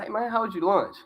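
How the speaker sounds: a hint of a cheerful lunchtime hello; own quoted greeting. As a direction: toss off a casual hey to a buddy. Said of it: "I was like".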